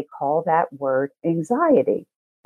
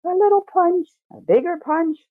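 building punch; 12 semitones higher than usual. Shown as a demonstration. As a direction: hit each punch harder, rising. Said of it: "shame guilt's an energy".

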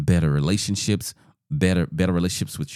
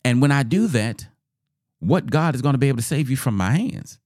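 Nebuchadnezzar; 6 semitones higher than usual. Acted. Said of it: "Nebuchadnezzar really thought that he was".

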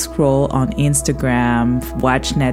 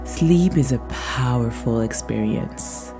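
guided meditation. Acted. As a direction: lull the listener gently toward sleep.

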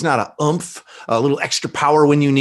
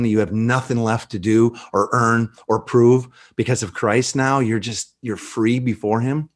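tender baptism address; 2 semitones lower than usual. Retold or imitated. Reenacting baptism words to friend.

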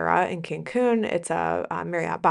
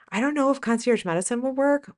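doubtful nurse; 7 semitones higher than usual. Retold or imitated. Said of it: "you're like".

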